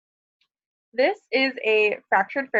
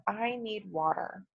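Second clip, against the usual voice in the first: gasping; 2 semitones lower, 10 dB quieter, slower than usual. Shown as a demonstration. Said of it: "He's struggling to say".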